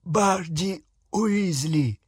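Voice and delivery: thick, slurred through blood; mouth full of blood. Acted. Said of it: "у него полон рот крови".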